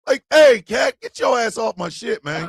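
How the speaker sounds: sudden loud holler at the pet; yell at cat. Real, not acted. Owner hollering at the cat to get off, loud. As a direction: bark it at the cat mid-laugh.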